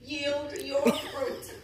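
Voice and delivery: small, timid, drawn-out squeak; little squeaky voice. Retold or imitated. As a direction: say it slowly and unsurely in a tiny voice. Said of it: "in my little squeaky voice".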